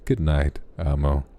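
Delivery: low-voiced goodnight on request; deep bass goodnight. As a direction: say goodnight in a slightly deepened bass voice. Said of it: "say good night to me with a great bass".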